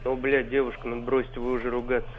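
ordinary talk

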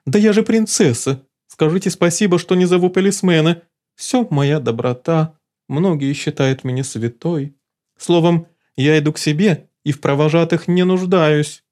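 high, imperious princess; high lofty scolding; haughty outrage. Acted. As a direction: look down on him. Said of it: "завопила Лулу".

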